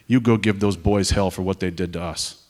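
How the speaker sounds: lightly imitated New York accent; thick New York accent. Pizza-place stranger sending an airman after the attackers, mild New York accent. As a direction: retell it in a New Yorker's accent. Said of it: "in his thick New York accent".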